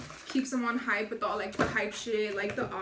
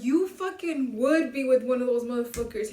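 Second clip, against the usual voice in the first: louder, mock-exasperated telling-off; acted scolding; 6 dB louder than usual. Homie scolds her over the guys she dates, loud acted scolding. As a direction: retell a friend's rebuke with force.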